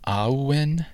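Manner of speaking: Awen said as AH-wen; pronounced Awen. Shown as a demonstration. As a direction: say Awen with an open first vowel, AH-wen. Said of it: "a lot of people pronounce it".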